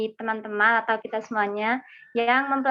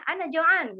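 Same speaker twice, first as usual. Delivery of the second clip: "Ana Joan" in an Arabic accent, pitched higher; 4 semitones higher, slower than usual. Shown as a demonstration. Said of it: "Kalau Arabnya". (logat Arab, nada lebih tinggi)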